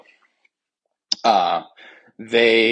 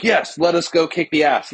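mock formal Shuri; 8 semitones higher than usual. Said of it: "she's like".

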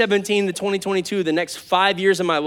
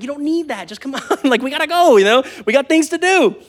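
heated parent; 6 semitones higher than usual. Retold or imitated. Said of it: "I'm getting a little heated".

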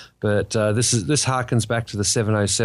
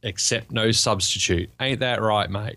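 broad put-on Ocker Australian, drawn out; mock Ocker accent. Host opens as the real Ocker McCoy, mock Ocker accent. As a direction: lay on a hammed-up Ocker twang. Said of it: "figured out how to do the accent".

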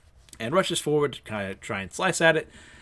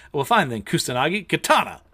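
mock battle command; 4 semitones higher, 5 dB louder than usual. Acted command to attack.

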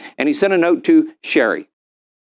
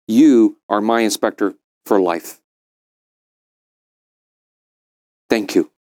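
choked-up thanks; 6 semitones lower than usual. Retold or imitated. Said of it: "you could see him getting choked up".

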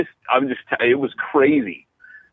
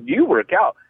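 lightly voiced flirt, pitched higher; a higher, playful imitation of her; imitating flirty churchgoer; 5 semitones higher than usual. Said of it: "she'd squeeze her muscles".

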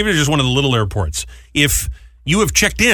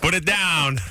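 soft teasing; 7 dB quieter than usual. Pretend.

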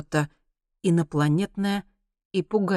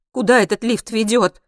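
raised, fearful question; trembling voice; 7 semitones higher, 7 dB louder than usual. A narrator's reading. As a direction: ask it with a touch of fear. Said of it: "спросила она дрожащим голосом". (дрожащим голосом)

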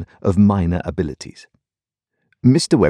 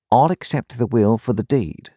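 a lightly raised voice for the clerk; Wemmick's voice; 5 semitones higher than usual. A narrator's reading. Wemmick to the Colonel, a hint of a dry clerk. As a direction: narrator shifts a little into Wemmick.

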